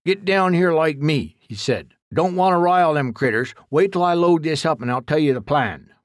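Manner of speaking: put-on folksy old man warning his helper; rustic old exterminator. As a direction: play a blunt country codger giving orders. Duke instructs Jack.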